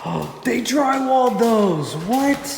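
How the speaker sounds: gasping in real surprise, high-pitched; shocked gasp. Real, not acted. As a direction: caught off guard, voice jumps up. Discovers the drywall, gasping.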